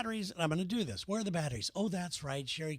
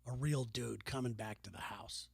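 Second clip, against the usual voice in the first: softer, lower muttered thought; inner grumble; 7 semitones lower, 7 dB quieter than usual. Retold or imitated. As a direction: grumble it to yourself quietly. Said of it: "and I'm thinking".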